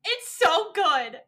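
on the edge of crying; teary. Real, not acted. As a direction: voice wobbling with real tears. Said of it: "I'm literally about to cry talking about it".

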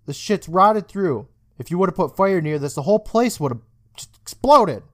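retold boy scolding his teacher, rising alarm; urgent scolding. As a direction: get in his face and warn him. Confronting teacher in his face.

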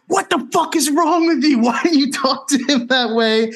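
high-pitched imitation of friends ripping into someone; hammed-up outraged telling-off, voice way up; mock scolding. Friends rip into the speaker over the bartender, mock outrage. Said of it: "start ripping into me".

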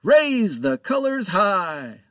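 high, loud, slow bellowed command; ship's order. Acted. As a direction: roar the order across the deck. Captain gives order to crew.

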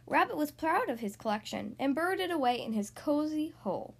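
animated picture-book narration with swooping emphasis; read-aloud to children. A narrator's reading. Host reading a story to young listeners, lively storytelling. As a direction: read a picture book to small children, stretching key words.

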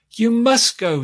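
high-pitched scream at the son. A narrator's reading. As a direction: scream the order. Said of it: "screamed she".

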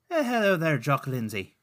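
amateur Irish brogue; put-on Irish accent. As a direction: greet him in a shaky attempt at Irish. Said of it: "Speaking of bad accents".

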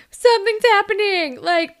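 mock panicked babysitter; panicking babysitter. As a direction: babble in a panic. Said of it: "is like".

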